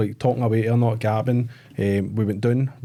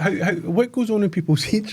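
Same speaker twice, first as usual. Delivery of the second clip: laughing; 8 semitones higher than usual. Real, not acted. Incredulous about customer, laughing.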